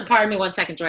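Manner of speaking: throat tickle, rushed apology; clearing a gnat from the throat; swallowed a bug. Real, not acted. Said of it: "I think I just swallowed a gnat".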